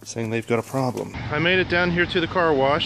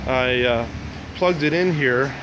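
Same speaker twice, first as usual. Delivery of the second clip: shouting over machinery. Real, not acted. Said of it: "sorry for the noise for the machines".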